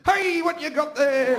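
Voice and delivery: high, slow, loud drawn-out call; nervous dad. Retold or imitated. Dad hurries over to the boy with the vibrator, nervously. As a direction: play a nervous dad stretching out each word. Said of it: "dad when they're nervous walk".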